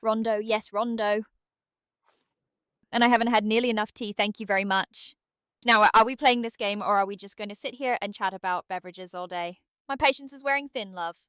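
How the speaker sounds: put-on impatient British accent; brisk British nudge to get moving; British Aria. Game sidekick hurrying the player to drop, impatient British. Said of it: "how was British Aria's day?".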